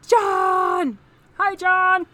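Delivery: loud, high happy call; excited greeting. Real, not acted. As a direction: call out to a friend across the room. Greeting a viewer who joined.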